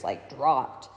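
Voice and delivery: ordinary delivery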